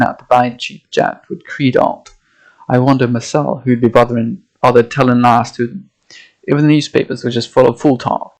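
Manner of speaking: lightly voiced old Yorkshire sailor, gruff and dismissive; a hint of a Yorkshire fisherman brushing off tall tales; old Yorkshire accent. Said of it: "having to find an accent here".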